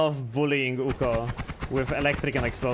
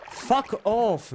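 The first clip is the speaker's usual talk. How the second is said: annoyed shout; 9 semitones higher than usual. Real, not acted. Hit again by enemy.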